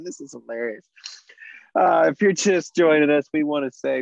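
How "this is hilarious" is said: whisper. Real, not acted. Whispered aside after laughing.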